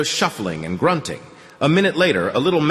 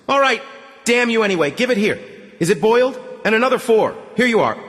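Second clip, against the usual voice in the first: exasperated broker; 12 semitones higher than usual. Acted. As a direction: give in grudgingly while counting out. Broker voiced high.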